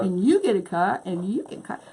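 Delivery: swooping talk-show giveaway patter; mock giveaway host. Crafter playing along with the car giveaway joke, lightly mocked host swoops. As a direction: swing the pitch up and down on each handout.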